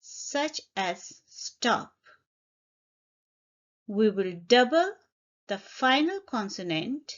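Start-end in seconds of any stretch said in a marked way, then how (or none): 0.0-1.9 such as stop drawn out at half speed; slow example. Shown as a demonstration. Teacher giving a one syllable example verb, slowly. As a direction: spell out the example slowly for the learners. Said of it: "If it's a one syllable word".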